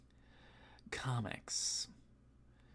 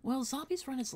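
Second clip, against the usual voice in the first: high, loud yawn-stretched words; 13 semitones higher, 4 dB louder than usual. Real, not acted. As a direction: push through a yawn. Yawn-stretched opener after remark.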